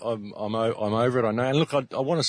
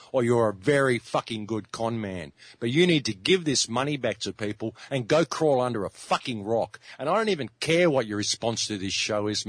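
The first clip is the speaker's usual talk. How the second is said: heated rant calling out a con man; angry tirade. Real, not acted. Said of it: "You're obviously very angry".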